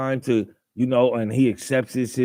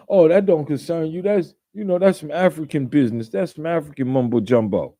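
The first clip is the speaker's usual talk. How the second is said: higher, sneering imitation of people brushing it off; mocking dismissive voice; 3 semitones higher, faster than usual. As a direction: mimic a smug dismissal, a bit higher and faster.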